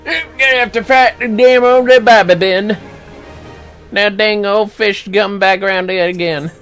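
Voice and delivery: normal talking voice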